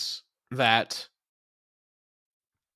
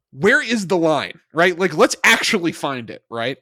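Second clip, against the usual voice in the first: louder, insistent pitch to colleagues; acted eager brainstorming; 3 semitones higher, 6 dB louder than usual. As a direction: push it like a writer egging on the room. Voicing the writers' bold decision.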